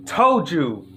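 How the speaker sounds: shocked high exclamation; surprised. Real, not acted. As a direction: react in disbelief. Both yawned again, surprised.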